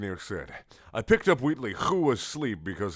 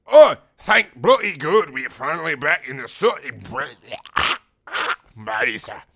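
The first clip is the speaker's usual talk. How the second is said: loud, high put-on voice bursting with relief; Wheatley, happy; 6 semitones higher, 11 dB louder than usual. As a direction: cry out gladly in a silly character voice. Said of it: "Wheatley happily said to me".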